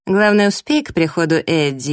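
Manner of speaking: lightly sarcastic mock consent; snide. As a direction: concede with a mocking lilt. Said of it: "язвительно отозвалась Лейна".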